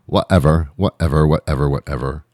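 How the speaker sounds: put-on dismissive Valley Girl whatever, low and trailing. Shown as a demonstration. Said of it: "I sound like a Valley Girl".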